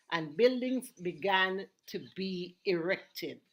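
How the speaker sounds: slow, deliberate radio narration with spaced-out phrases; measured storytelling for radio listeners; history reading. Acted. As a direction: read out a history snippet slowly, pausing between phrases. Reads a history snippet.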